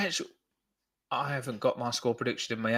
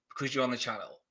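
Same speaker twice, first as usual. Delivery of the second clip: softer, lower muttered reasoning; voicing what mum was thinking, under his breath; mum's inner thoughts; 5 semitones lower, 8 dB quieter than usual. Imitating his mum's thoughts to viewers, quietly. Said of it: "you could tell she was like".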